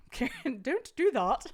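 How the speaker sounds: lightly voiced Karen scolding; a half-hearted go at a Karen. Streamer retries her bad Karen impression, lightly voiced. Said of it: "should I do a Karen voice?".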